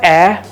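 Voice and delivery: "A" as the open short vowel of "cat"; soft English vowel. Shown as a demonstration. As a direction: sound out "A" as a soft "aeh". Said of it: "those, um, very soft words".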